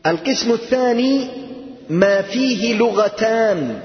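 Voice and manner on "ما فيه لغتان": slow ما فيه لغتان, فيه weighted; teacher stresses فيه slowly. Shown as a demonstration. Teacher stresses two languages to the class, slowly. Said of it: "ما فيه إيش".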